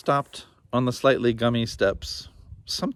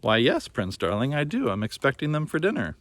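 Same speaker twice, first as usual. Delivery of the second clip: high, sugary witch; sweet witch voice; 4 semitones higher than usual. Acted. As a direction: purr it sweetly, full of menace. Gingerbread witch answers.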